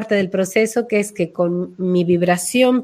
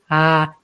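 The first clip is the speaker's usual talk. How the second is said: left-hanging ah; 5 semitones lower than usual. Shown as a demonstration. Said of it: "la dejan ahí colgada".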